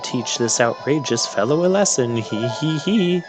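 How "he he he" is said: read-aloud mock "hee hee hee"; spoken giggle, rising higher at the end; villain's giggle. Witch plots to teach the intruder a lesson, mock giggle.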